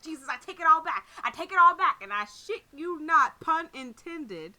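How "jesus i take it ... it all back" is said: panicked plea. Retold or imitated. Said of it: "And I was like".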